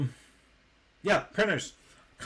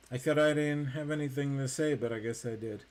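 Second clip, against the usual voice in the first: talking with mouth full; words round a mouthful of food. Real, not acted. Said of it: "My mouth is full".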